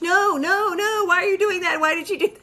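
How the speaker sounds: horrified pleading. Acted. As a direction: plead in rising horror as you watch it happen. Voicing horrified Jimmy watching her.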